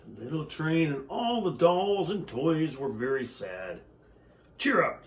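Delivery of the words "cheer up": cheering up. Acted. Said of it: "said the little clown".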